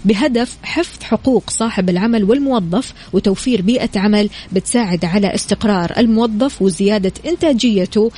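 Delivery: ordinary delivery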